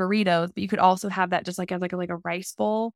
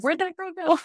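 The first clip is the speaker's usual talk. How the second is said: mock puzzled listener; 10 semitones higher than usual. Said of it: "you know, just like".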